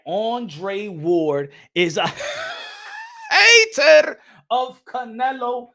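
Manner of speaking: slow, breaking into laughter; can't hold back the laugh; laughing through it. Real, not acted. Telling viewers people call Andre Ward a hater, laughing through it.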